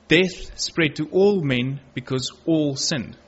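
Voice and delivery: slow, deliberate weight on "all"; stress on all. Real, not acted. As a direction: draw out "all" so it stands out in the verse. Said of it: "place the emphasis, emphasis on the word all".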